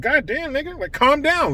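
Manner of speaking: mild imitation of a player shrugging it off; imitating Schroeder. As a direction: toss it off casually, a hint of the player's tone. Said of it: "look at how he said".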